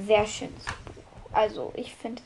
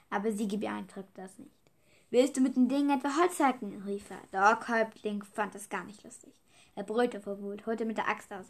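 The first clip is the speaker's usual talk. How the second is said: put-on calm children's book reading; story narration. A narrator's reading. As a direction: read the adventure aloud steadily. Reads chapter one aloud.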